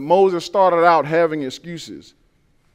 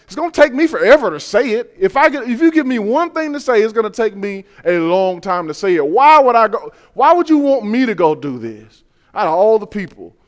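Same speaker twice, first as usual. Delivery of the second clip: whiny Moses; 3 semitones higher, 4 dB louder than usual. Retold or imitated. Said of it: "Then he says".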